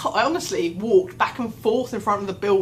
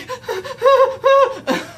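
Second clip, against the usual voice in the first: mock panic noise; 8 dB louder than usual. Acts out panicking in childcare area.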